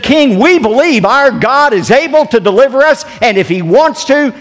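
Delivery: loud, high-pitched proclamation of faith; bold declaration. Retold or imitated.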